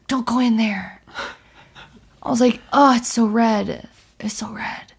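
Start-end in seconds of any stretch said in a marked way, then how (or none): 0.1-1.0 whispered, spooky sleep warning; eerie whisper. Retold or imitated. Acting out own sleep talk. 2.7-4.9 whispered, awed sleep talk; dreamy whisper. Retold or imitated. Acting out own sleep talk.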